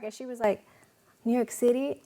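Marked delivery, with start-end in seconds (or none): 1.2-2.0 "New York City?" as a higher, eager question rising at the end; excited question. Retold or imitated. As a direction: her eyes light up as she asks. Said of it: "her eyes just lit up".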